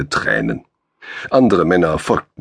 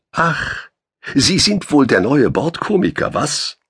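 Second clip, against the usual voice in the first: ironic question; 8 semitones higher than usual. A narrator's reading. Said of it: "entschloss er sich zu einer ironischen Frage".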